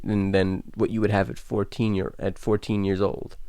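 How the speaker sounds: tripping over words, real stammer. Real, not acted. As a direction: stammer through the repeats. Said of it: "I'm stammering so hard".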